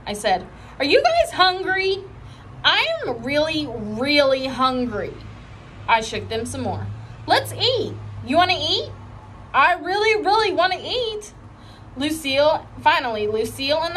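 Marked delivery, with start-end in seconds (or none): 0.8-11.3 higher, eager begging voice; pleading kid. A narrator's reading. Junie begging her sleepy friends to eat, high and eager. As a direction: beg your friends for food.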